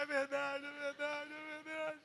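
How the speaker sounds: high-pitched imitated tearful wail; mock crying. Wife admitting the prophecy is true, in a mock crying wail. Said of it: "Aí ela começou a rir, chorar".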